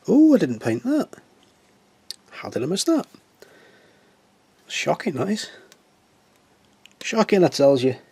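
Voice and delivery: high, hammed-up surprise; mock shock. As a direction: play up the shock at the missed spot. Mock dismay at missed paint.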